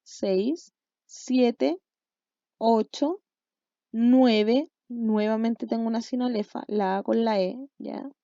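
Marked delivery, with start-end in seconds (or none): 0.0-4.7 spaced count, each number lifting at the end; teacher's deliberate count with pauses between numbers; counting aloud. Shown as a demonstration. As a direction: count off syllables slowly, one by one. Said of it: "ahí vamos en la sílaba número seis".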